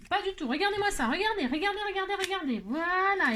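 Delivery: high, loud exasperated "look at this"; dismayed exclamation. Real, not acted. Crafter showing students her crooked page, dismayed and loud. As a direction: show them the mess, half laughing in dismay.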